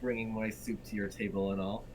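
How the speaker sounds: bad Irish accent. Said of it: "That was out of character".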